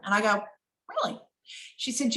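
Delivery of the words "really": surprised really. Retold or imitated. Hearing client is Hillary Clinton.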